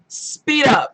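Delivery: loud, high "Speed up"; impatient shout. Retold or imitated. Vlogger yelling at her slow audiobook. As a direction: yell at the stereo to hurry. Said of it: "and I'm going".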